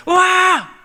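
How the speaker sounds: long, high, very loud "waah"; imitated roar. Preacher mimics a mere loud war cry, held shout. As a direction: let out one held mass-cry. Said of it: "이런 소리로 생각하지 않았다는".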